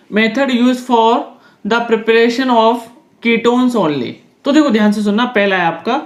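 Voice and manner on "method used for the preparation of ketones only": very slow, word by word, for note-taking; slow dictation. Shown as a demonstration. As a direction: spell out the heading so students can write it. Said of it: "teacher dictating a heading".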